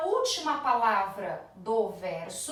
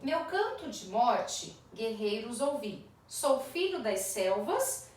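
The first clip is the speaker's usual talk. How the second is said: poem recitation; slower than usual. Shown as a demonstration. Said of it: "três de seus versos ele diz assim".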